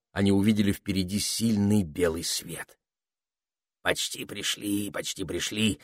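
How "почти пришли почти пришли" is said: a quietly muttering parrot. A narrator's reading. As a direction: mutter it twice under the breath. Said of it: "пробормотал попугай".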